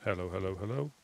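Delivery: tinny test call into a can; tinny transistor radio. Real, not acted. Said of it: "Say something again?".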